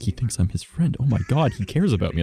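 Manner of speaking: gushing inner voice, rising high on "Oh my God"; thrilled at being called a friend; touched delight. Retold or imitated. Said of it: "I was like".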